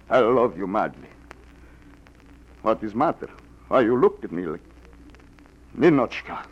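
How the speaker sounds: seductive fake Russian. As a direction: woo her in a hammed-up Russian accent. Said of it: "like the accent, the beard".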